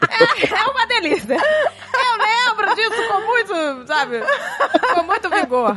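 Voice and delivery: laughing through the words, voice cracking; can barely get it out for laughing; slowed, high giggling memory. Real, not acted. Laughing remembering toddler tantrums.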